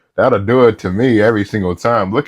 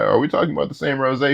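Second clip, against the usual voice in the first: softer, flatter aside; quiet repeat; 6 dB quieter, faster than usual. Real, not acted. Reactor repeats the question to viewers as a softer, dry aside. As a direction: say it again under your breath, dry.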